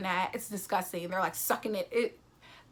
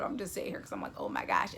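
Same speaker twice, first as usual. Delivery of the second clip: shocked whisper; 5 dB quieter, faster than usual. Real, not acted. Shocked at blood splattering.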